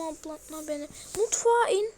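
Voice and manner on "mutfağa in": higher, louder command; loud urging. Real, not acted. Gamer urging Granny downstairs, loud higher shout. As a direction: shout her down to the kitchen.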